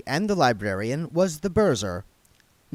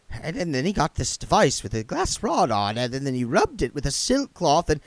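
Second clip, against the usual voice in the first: nervous stammer; 4 semitones higher than usual. Acted. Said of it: "words started to come out by themselves".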